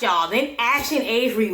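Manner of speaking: ordinary talk, nothing marked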